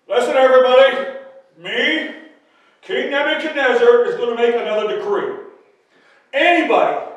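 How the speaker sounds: royal proclamation. Acted. King proclaims a new decree.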